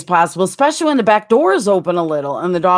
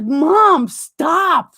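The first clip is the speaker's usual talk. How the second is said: whiny embarrassed daughter; 9 semitones higher than usual. Retold or imitated. Daughter embarrassed by mom's joke, high whiny mock plea. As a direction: play the mortified daughter begging mom to quit. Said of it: "She's like".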